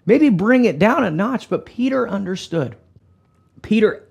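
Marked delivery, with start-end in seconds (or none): 0.0-1.5 taken-aback onlooker. Acted. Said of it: "Some people are probably looking at Peter going".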